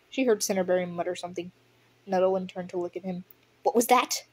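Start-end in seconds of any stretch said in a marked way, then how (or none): 3.6-4.2 snapping. Acted. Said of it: "Nettlewind snapped".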